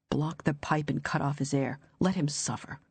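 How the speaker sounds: whisper-like urging to let him die; cold inner voice. Acted. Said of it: "The cold, alien voice".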